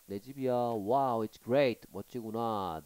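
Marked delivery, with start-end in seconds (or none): 0.5-1.9 bright exclamation. Shown as a demonstration. Teacher reads excited reply.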